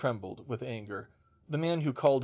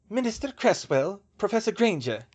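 put-on raised, louder voice with a German accent; stern older witch, thick German accent; 8 semitones higher, 5 dB louder than usual. A narrator's reading. German witch addressing minister and professor, thick German accent. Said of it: "she said in a thick accent".

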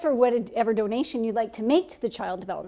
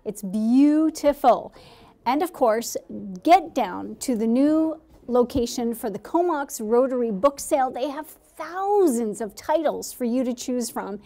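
announcer read. Acted. Reads promo segment on air.

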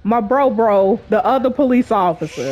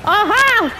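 triumphant whoop; 8 semitones higher than usual. Real, not acted. Gamer taunting enemies after a kill, high triumphant whoop. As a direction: crow over the kill.

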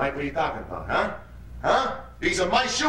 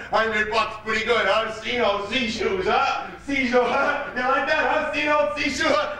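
high, laughing taunt; laughing mockingly; 9 semitones higher, slower than usual. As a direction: crack up at your own joke, pitch up. Laughing at own joke.

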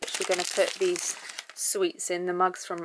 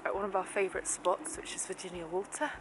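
hushed so joggers won't hear; whispering; 6 dB quieter than usual. Real, not acted. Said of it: "Why are you whispering?".

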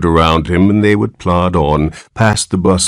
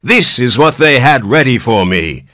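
put-on quavering old man; 6 semitones higher than usual. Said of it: "he quavered".

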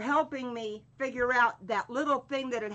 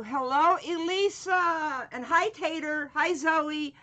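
excited greeting; 6 semitones higher, 5 dB louder than usual. Real, not acted. Greeting chat viewers and pets.

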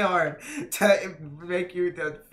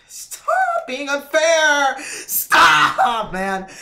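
loud, high, slowed protest; frustrated yell; 10 semitones higher, 12 dB louder, much slower than usual. Real, not acted. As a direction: shout out the unfairness. Yelling at the boss.

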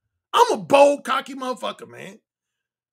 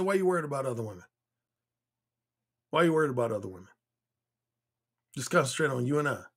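cocky; 10 semitones lower, 7 dB quieter, faster than usual. Retold or imitated. Retelling his cocky reply to her.

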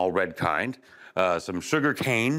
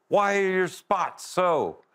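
put-on excited child; 9 semitones higher, slower than usual. A narrator's reading. Elephant's child quizzing the giraffe, high and eager. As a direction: pipe it up like an eager little one.

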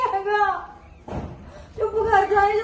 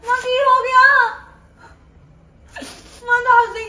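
tearful pleading; 2 semitones higher, 4 dB louder than usual. Acted. Daughter pleading with upset mother.

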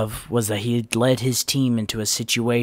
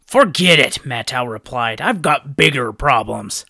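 dismissive; 2 semitones higher, 8 dB louder than usual. A narrator's reading. Matau brushing Vakama off.

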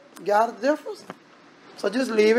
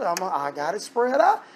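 ordinary talk

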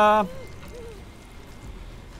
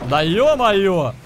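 раздражённый геймер; 4 dB louder, much slower than usual. Real, not acted. Gamer exasperated at game event.

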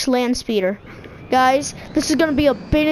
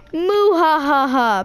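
evil laugh. Pretend. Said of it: "I'm so evil".

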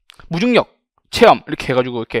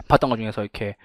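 ordinary talk

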